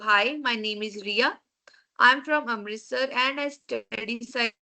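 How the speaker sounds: slow, careful reading aloud; reading sample text. Shown as a demonstration. Teacher reading a student's sample text to class, slow and careful. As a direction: read the example line slowly, word by word.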